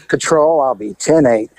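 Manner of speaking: dry dispatch radio report; radio call. Retold or imitated.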